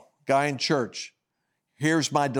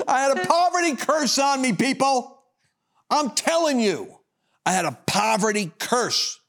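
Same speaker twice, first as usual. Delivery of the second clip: preaching peak; 11 semitones higher than usual. Real, not acted. Preacher crying out to the folks about poverty. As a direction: drive it home to the congregation.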